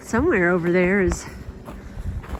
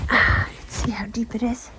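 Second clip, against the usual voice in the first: whispering; 3 dB quieter than usual. Real, not acted. Quiet look at deep snow.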